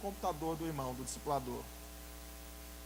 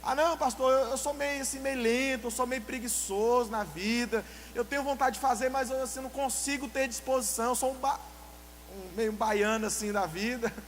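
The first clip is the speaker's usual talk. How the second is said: higher, whiny member excusing laziness; mock lazy excuse; 4 semitones higher than usual. Preacher mimics a member calling himself lazy, higher and whiny. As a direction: play a sluggish believer, lightly hammed. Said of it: "Tô usando esse exemplo".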